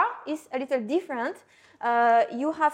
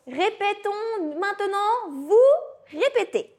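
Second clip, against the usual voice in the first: teacher prompt; 4 semitones higher than usual. Real, not acted. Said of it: "teacher calls class to repeat".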